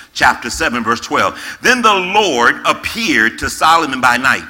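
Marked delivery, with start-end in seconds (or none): 1.6-4.4 scripture reading. Acted. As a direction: read God's words with gravity. Reads scripture slowly.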